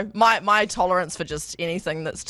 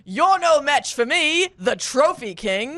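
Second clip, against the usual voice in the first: slow, raised-pitch game-character proclamation; mock boastful yell; 4 semitones higher, much slower than usual. Game character with chest out challenging players, half-yelled boast. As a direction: proclaim it grandly, stretching every word. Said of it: "you're just yelling".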